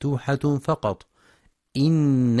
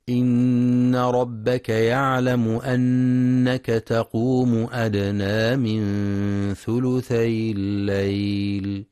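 Quranic recitation; 3 dB louder, slower than usual. Acted. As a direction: chant the verse with long vowels. (تلاوة مرتلة بصوت مرتفع)

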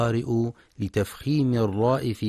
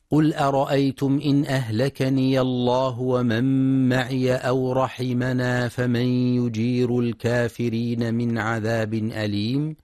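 Quran recitation; 2 semitones higher than usual. Acted. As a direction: recite it as in tajweed class.

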